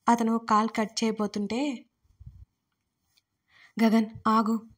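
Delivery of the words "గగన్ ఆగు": understated urgent call; mild narrated cry out. A narrator's reading. Varsha stopping Gagan before he hangs up, mildly crying out. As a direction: call out to stop him, restrained. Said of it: "వర్ష అరిచింది".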